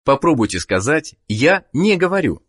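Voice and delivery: ordinary delivery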